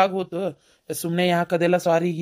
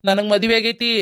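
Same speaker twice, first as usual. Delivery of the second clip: louder, higher angry insistence; 4 semitones higher, 5 dB louder than usual. Acted. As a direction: snap it back at her, annoyed. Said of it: "ಸಿಟ್ಟಾಗ್ಬೇಡ". (ಸಿಟ್ಟಿನಿಂದ ಜೋರಾಗಿ ಹೇಳುವುದು)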